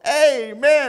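high shouted "Amen!"; yelled amen. Retold or imitated. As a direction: yell "Amen!" to stop the runaway horse. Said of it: "and he yelled".

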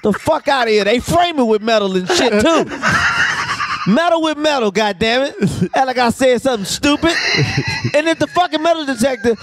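fast, hammed-up rant, laughing through it; mock rant. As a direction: fake fury at a dumb metal detector. Mock rant at metal detector.

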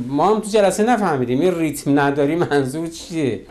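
ordinary delivery

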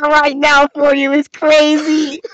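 amused mimicry. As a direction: repeat it high, close to cracking up. Mimics the clerk, cracking up.

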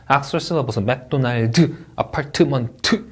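'악설 실러버스, 맥도날드, 아파트먼트' with a full vowel after each consonant; extra vowels inserted. Shown as a demonstration. Teacher showing students what to avoid, Koreanized extra syllables. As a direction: say '아파트먼트' syllable by syllable, Korean-style. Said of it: "뭐 이런 식으로 하시면 안 돼요".

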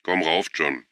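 a restrained call to come up. A narrator's reading. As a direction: call up to someone at a slight distance. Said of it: "dann rief Anna".

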